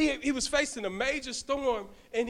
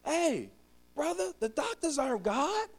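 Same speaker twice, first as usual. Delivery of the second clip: elder's rebuke; 6 semitones higher than usual. Retold or imitated. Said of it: "Pare said".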